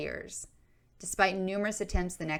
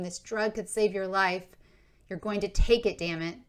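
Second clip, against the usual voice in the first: louder, rising mock yell of frustration; imagined scream; 3 semitones higher, 6 dB louder than usual. Sister imagining yelling at Adrian to take the drug, loud. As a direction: force it on her, half shouting. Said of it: "wants to ... scream".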